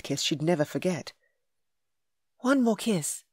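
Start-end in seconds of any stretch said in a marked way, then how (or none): 2.4-3.2 higher, louder insistent plea; demanding. A narrator's reading. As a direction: demand it eagerly. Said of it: "she demanded".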